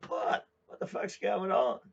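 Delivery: high loud baffled shout; yelling wife. Retold or imitated. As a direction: yell it back, confused and annoyed. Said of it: "And she goes".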